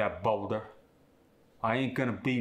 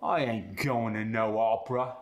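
opera said as "awpra", Cockney style; Cockney refusal, opera with an AW; Cockney aw sound. Shown as a demonstration. Student demos Cockney opera. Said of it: "ah sound becomes the aw sound".

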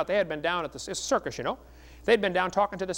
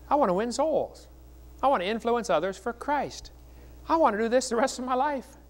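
raised, ringing pitch, heart on sleeve; fervent declaration; 6 semitones higher than usual. Real, not acted. Preacher tells the crowd what drives him, fervent and raised. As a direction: lift the voice high with conviction. Passionate testimony to the congregation.

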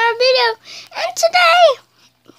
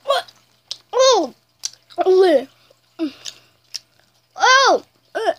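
shocked by sour; much slower than usual. Real, not acted. First bite of sour candy.

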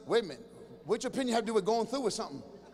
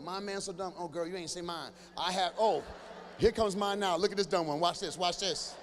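gossiping wives; 4 semitones lower than usual. Acted. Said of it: "women sit around in a group and fight".

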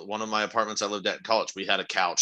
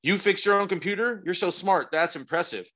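gushing compliment; 7 semitones higher than usual. Retold or imitated. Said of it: "And then".

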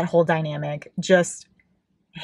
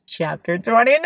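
chapter title squealed, climbing to a shriek; fangirl squeal; 11 semitones higher, 3 dB louder than usual. Real, not acted. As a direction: squeal it higher and higher.

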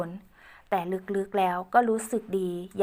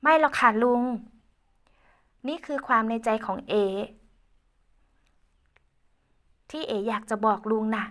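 put-on young woman Ae; 2 semitones higher than usual. Girl Ae speaking to Uncle Uan, lightly girlish.

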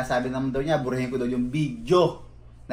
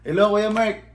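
higher and louder, sugary "Kuya"; butter him up like a polite younger cousin; sweet mock politeness; 7 semitones higher, 5 dB louder than usual. Retelling the caller's sudden sweet greeting, sugary.

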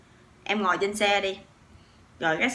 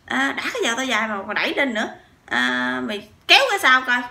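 retelling a stranger's grumble, a bit louder; half-acted irritated scolding; mock angry complaint; 4 semitones higher, 4 dB louder than usual. Stranger in the front seat scolding her husband, mock angry. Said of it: "theo kiểu là đập".

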